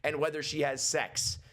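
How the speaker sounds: pretend furious rant. Sister scolding her creepy brother, outraged. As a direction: tear into the creep. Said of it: "She needs to be like".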